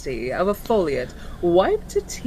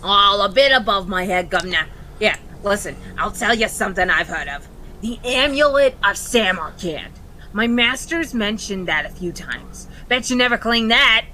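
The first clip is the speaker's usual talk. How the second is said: cockney imp voice; 4 dB louder, faster than usual. Acted. Imp Bartimaeus speaks in role.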